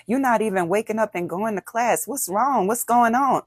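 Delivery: rising, pressing accusation; accusing. Shown as a demonstration. Parent scolds a youth for missing class, accusing. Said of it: "As opposed to".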